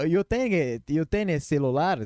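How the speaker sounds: slow, halting mixed-language question; broken portunhol. Retold or imitated. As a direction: spell it out word by word to a foreigner. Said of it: "mandei um portunhol". (pergunta lenta em portunhol)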